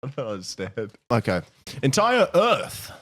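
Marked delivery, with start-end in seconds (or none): 1.8-2.9 drawn out and weighty, higher pitch; slow headline read. Shown as a demonstration. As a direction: announce it like a headline, very slowly. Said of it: "I'll do my newsreader voice".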